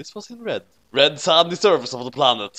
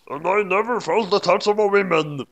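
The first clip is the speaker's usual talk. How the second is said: high, mournful last words; mock dying lament; 7 semitones higher than usual. A narrator's reading. Beyond's last words to Naomi, high mock lament. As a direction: sigh it out as you die.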